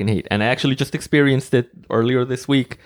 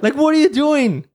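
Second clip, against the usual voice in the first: higher, exasperated question; 13 semitones higher, 3 dB louder than usual. Real, not acted. Asking the speeding driver what he is doing, exasperated. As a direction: demand it in disbelief.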